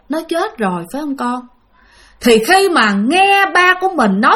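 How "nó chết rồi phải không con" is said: soft sad question. Retold or imitated. Grandfather softly asks his daughter if her sister is dead. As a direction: ask it as if you already know.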